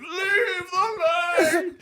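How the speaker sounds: put-on high, slow, strangled old man yell; mock old man shouting. Retelling the old man at the pool, high mock shout. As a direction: ham up a furious old swimmer. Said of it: "He's going".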